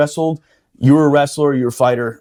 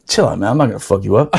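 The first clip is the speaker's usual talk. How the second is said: calm reassurance; 8 semitones lower, faster than usual. Retold or imitated. Calming a nervous sparring partner.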